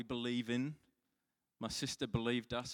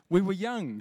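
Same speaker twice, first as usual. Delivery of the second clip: much higher and louder, laughing excuse; defensive protest; 8 semitones higher, 10 dB louder than usual. Real, not acted. Pastor to mortified wife Susan, loud defensive excuse. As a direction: plead your case to your wife with a grin.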